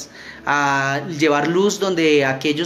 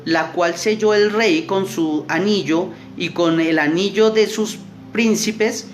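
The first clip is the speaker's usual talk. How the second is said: slow, measured Bible reading; scripture reading; 3 semitones higher, slower than usual. Acted. Youth leader reads Daniel aloud to youth, slow and measured. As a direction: read the verse slowly to the youth group.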